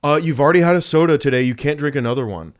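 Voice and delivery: prissy little tattletale; mock bossy kid voice. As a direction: scold him like a smug little sibling. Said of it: "my little telling ass was like".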